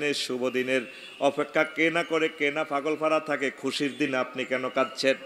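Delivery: even, running waz cadence; intoned sermon recitation. Acted. Jibril consoling the weeping Prophet, intoned appeal. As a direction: recite it as a flowing melodic appeal. Preacher intones the angel's speech.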